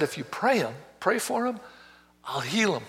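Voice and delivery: soft, measured voice of God; quietly instruct, as God would; the Lord speaking. Retold or imitated. The Lord urges a man to pray, soft and measured. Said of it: "the Lord spoke to me".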